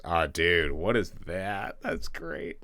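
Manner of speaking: loud, rising delighted surprise. Real, not acted. Streamer spotting a funny bug, delighted surprise. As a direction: burst out at the funny sight. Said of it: "That's super funny".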